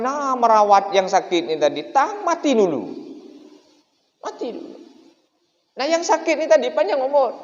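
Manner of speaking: high-pitched preacher's tale; high animated sermon story. Acted. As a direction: tell it with wide-eyed amazement.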